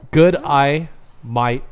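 "Good eye, mate" as Australian g'day; Australian accent. Shown as a demonstration. Host showing co-hosts the phrase, Australian accent. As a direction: demonstrate the Australian greeting. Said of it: "without sounding Australian".

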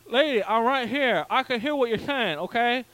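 sarcastic lady I'm right here; indignant retort. Retold or imitated. To the scolding dentist, a mildly indignant reply. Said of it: "and I'm like".

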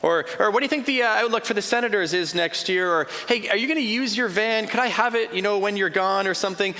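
high, breezy, clueless small-talk voice; mock the friends who change the subject; oblivious friends' chatter. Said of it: "But then they say".

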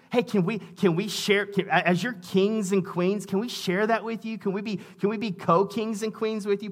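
sarcastic, wheedling paraphrase; mock pleading sarcasm. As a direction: needle them with fake humility. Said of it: "being very sarcastic".

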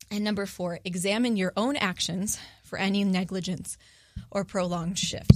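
out of breath from pregnancy. Real, not acted. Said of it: "I'm pregnant and I'm out of breath".

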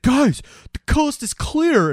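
high, drawn-out mock call; imitated yelling. Man turns round to his friends, mock yelling. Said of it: "he's yelling at 'em".

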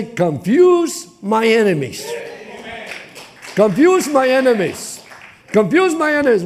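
fervent prayer that builds; crying out to God. Shown as a demonstration. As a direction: build the plea with each repeat. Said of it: "We gotta learn how to cry that way".

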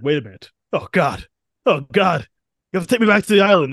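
frantic begging, speeding up; panicked plea. Retold or imitated. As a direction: blurt it out in rushing alarm. Xavier realizes, begs to return.

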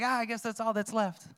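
understated mock resignation; mock resigned sigh. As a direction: imitate a half-hearted shrug. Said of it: "we go like".

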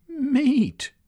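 high, loud amused disbelief; amused scoff. Acted. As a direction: laugh off the idea. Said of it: "she chuckled".

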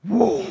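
mock lurch of the stomach; a startled little whoa; stomach going whoa. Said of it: "my stomach just went".

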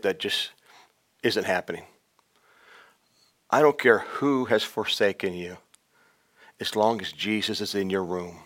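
soft, low pastoral voice; comforting quiet pulpit appeal; tender preaching. Acted. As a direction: speak gently to the hurting. Intimate softer ministry to listeners.

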